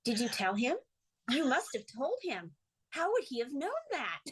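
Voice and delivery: imitated mother-in-law's earnest questioning; mock-serious interrogation, pitch climbing by the end; dead serious. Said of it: "And she got really serious".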